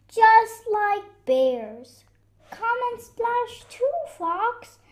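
high, loud playful holler; excited shout. Acted. Splashing friends urge Fox to join, shouting. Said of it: "they shouted".

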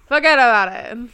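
mock New York Italian "fuhgeddaboudit"; New York Italian accent. Echoing the commentator's catchphrase, mock New York Italian accent. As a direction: say it as one word, New York Italian style. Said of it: "There's an H in there".

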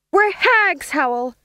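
very high, loud chorus; shouted response. A narrator's reading. Witches answering their stage manager, shouted high. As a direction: shout back obediently.

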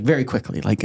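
ordinary delivery

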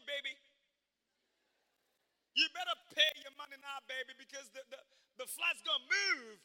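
mimicking the airport agent's African American accent; imitating African American accent. Preacher mimicking the airport agent in her African American accent. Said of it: "I tried to speak in her accent".

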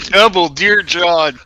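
slow, punchy Double Dear John; laughing shout. Real, not acted.

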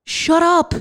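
exasperated. Real, not acted. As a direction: snap at the complainers. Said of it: "Yes, I'm talking to you".

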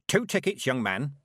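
cold, commanding old witch, lightly voiced; icy Granny. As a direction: freeze him with every word. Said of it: "Little bits of ice tinkled off her words".

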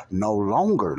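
"no longer" pushed out with extra weight; stress on "no longer". Shown as a demonstration. Preacher reading scripture, wants close listening, emphatic. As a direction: lean firmly on "longer" in "no longer". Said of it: "listen closely".

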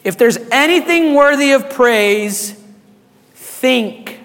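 slow, deliberate scripture reading with long pauses; read slowly. Real, not acted. Pastor reading Philippians aloud to the congregation, slow and deliberate. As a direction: let each phrase land, slowly. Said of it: "I'm gonna read it slow".

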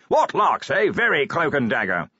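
high, booming cheerful wizard; happy bellow. A narrator's reading. Wizard relishing a secret meeting with the commander, cheerful bellow. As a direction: boom with delight at the secrecy. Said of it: "it bellowed happily".

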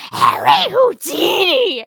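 slow, dopey Harry Houdini; mocking impression. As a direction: drag out the name like a goof. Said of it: "And you go".

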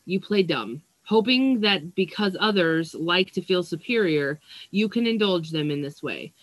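measured oracle-card reading voice; reading card text. Acted. Reader reading the Dragonfly card to her viewers, measured reading voice. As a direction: read the card's message aloud, deliberately.

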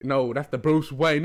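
light Asian accent impression; slow mock Asian accent. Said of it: "he speaks in an Asian accent".

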